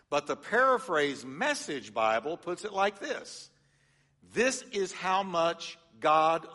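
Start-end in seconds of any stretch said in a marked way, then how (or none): 4.3-6.5 slow, heartfelt, almost sung reading; emotional reading. Shown as a demonstration. Pastor reads the Message paraphrase, slow and heartfelt. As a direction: draw it out like a heartfelt novel line. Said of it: "You're hearing some emotion there".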